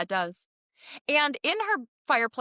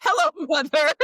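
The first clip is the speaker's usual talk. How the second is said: higher, louder sinister villain greeting; 6 semitones higher, 6 dB louder than usual. Retold or imitated. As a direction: say it like a scheming villain. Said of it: "which sounds like a villain or something".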